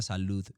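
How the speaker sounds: "salud" with a barely audible D; faint final D. Shown as a demonstration. Narrator recalls early recordings, "salud" with faint final D. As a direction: let the D of "salud" nearly vanish. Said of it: "no se escucha la D".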